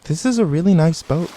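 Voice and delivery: lightly tipsy admiring tone. Acted. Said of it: "still decidedly tipsy".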